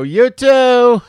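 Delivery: squeaked-out high "you too"; silly high reply. Retold or imitated. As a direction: chirp it back, high and loud. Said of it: "and you go".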